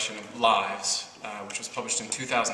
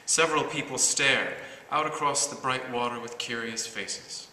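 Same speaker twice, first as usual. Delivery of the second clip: deliberate verse recital, pausing after each phrase; measured, articulated poem reading; poetry reading. Acted. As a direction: recite your poem to an audience, clearly and evenly. Reads own poem aloud.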